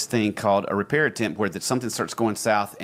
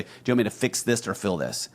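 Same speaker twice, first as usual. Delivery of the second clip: put-on Alabama accent. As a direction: fill said for feel in Alabama accent. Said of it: "I think I just spoke my Alabama accent right there".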